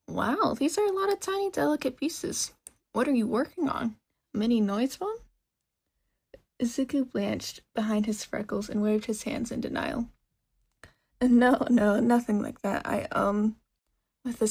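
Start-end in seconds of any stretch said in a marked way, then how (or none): 0.1-5.2 lightly higher, eager woman's voice; curious shopkeeper. Acted. Shopkeeper looks over the boy's list, eagerly curious. 11.2-13.6 loud hasty no, no; flustered denial. Acted. Boy denies building a phone, flustered and loud.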